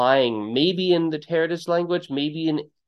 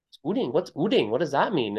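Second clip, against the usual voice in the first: puzzled; 4 semitones higher, 3 dB quieter than usual. Retold or imitated. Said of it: "We're like".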